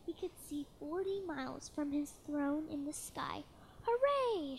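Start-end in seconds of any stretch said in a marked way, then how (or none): 3.8-4.6 high, louder cheer; joyful shout. Acted. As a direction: whoop it out in triumph. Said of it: "shouted Yertle".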